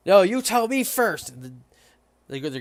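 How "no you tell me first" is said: landlord insisting. Acted. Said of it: "going back and forth".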